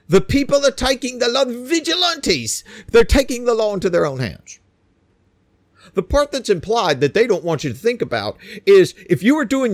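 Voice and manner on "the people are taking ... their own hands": high-pitched mock lament; mock bemoaning. Host mocking complaints about vigilantes, high bemoaning voice. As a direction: imitate them wailing in outrage, drawing out the key word. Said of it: "and they bemoan".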